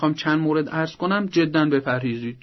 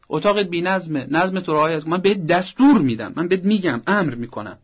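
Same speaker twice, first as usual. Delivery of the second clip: bossy mock order, louder; commanding parent; 4 semitones higher, 5 dB louder than usual. Shown as a demonstration. Parent ordering the teen to tidy his room, commanding. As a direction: lay down the law to the teen. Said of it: "گاهی با دستوره".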